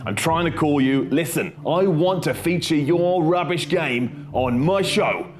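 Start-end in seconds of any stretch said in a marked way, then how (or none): none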